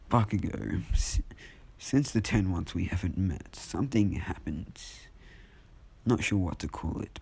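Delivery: slow, deliberate speech with weighty pauses; a hint of a villain's measured monologue; lightly acted monologuing. Izuku addresses Bakugo about near-death experiences, monologuing. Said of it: "monologuing, I guess".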